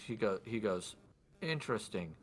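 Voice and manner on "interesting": lightly voiced, measured noble; lordly man in white. Lord probing the woman, lightly acted formal voice. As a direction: let interesting hang softly, then probe. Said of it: "do my best for his voice".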